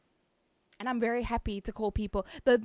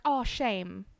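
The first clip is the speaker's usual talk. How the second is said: fond, drawn-out "oh, shame"; cooing at cuteness. Acted. Streamer showing how South Africans react to something cute, fondly. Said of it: "When we see something cute".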